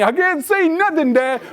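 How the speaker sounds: put-on high-pitched kid's complaint; straining little boy. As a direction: imitate a small boy, voice pushed up high. Acts out son lost in seat.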